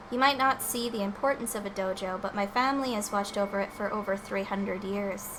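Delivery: softly voiced Sakura; voiced game character. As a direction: read it as the stoic fighter. Reads game character's lines.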